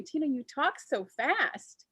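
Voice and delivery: slow, lightly imitated Southern drawl; mock-Southern slow delivery; imitated Southern talk. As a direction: stretch the words out like a Southerner. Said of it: "how Southern people were until they started talking".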